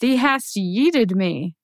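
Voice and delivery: mock King James. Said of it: "gotta be the King James version".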